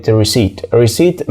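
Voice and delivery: "receipt" said as "ri-seet"; no p before the final t in "receipt"; silent P. Shown as a demonstration. Teacher giving a borrowed word, "receipt" as "ri-seet". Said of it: "مش بننطق حرف ال P فيها".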